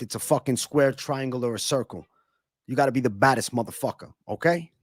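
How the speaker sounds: a loose hint of Joey Diaz, punchy ranting; mild Joey Diaz bluster; Joey Diaz impression. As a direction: rant like a gruff comic. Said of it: "Joey Diaz".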